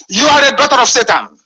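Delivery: "are" hit hard in a firm accusing voice; emphatic denunciation. Real, not acted. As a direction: condemn her outright. Denouncing an opponent.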